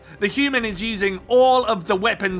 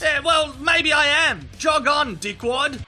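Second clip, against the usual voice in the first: defiant shout; 6 semitones higher than usual. Acted. Mother badger shouting down the leopard, defiant. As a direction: bark back at the leopard.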